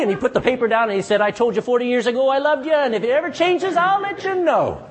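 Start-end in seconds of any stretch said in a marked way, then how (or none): 1.2-4.8 exasperated husband. Acted. Husband's exasperated punchline to wife.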